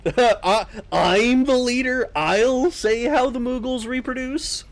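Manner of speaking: high, drawn-out mock declaration; mock imperious. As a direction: lay down the law in a put-on high voice. Mock cult leader laying down law.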